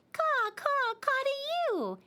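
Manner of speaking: high loud mock cawing; playful crow call back. Eitan caws back at the crow, high and loud. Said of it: "Eitan called back".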